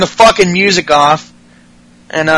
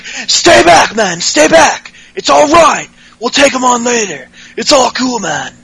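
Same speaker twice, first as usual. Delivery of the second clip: higher voice, urgently holding someone back; calm a hothead friend, pitched up; Fandango impression; 5 semitones higher than usual. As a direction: Fandango restraining Tyler Breeze, higher voice. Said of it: "That sounds just like him, too!".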